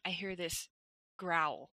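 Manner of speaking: quiet, creeping scary-story delivery; hushed suspense. Retold or imitated. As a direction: build dread quietly, phrase by phrase. Builds suspense before the scare.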